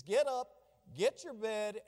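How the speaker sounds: loud, ringing command to rise; commanding shout. Retold or imitated. Preacher voicing Jesus ordering the lame man up. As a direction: order him up with full force.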